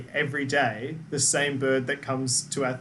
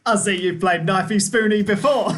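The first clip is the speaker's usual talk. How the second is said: mock Australian; 3 semitones higher, 4 dB louder than usual. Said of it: "try say something as Lee as an Australian".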